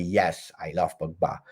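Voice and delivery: ordinary talk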